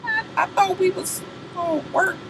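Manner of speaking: high, soft whimpering plea; high mock whine; whiny hurt husband. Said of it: "that nigga was just like".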